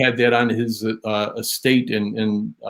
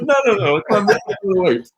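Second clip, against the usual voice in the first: much higher-pitched, urgent objection; hasty protest; 9 semitones higher, faster than usual. Retold or imitated. Teller re-enacting friends correcting Ringo about the box, hasty protest. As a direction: cut in to stop the misunderstanding. Stopping Ringo misreading the gift.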